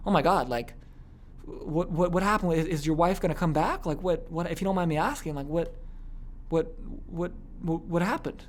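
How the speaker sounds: soft, halting, concerned questioning; I-care tone. Shown as a demonstration. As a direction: drop your voice and ask with hesitant care. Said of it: "how you do the I care tonality".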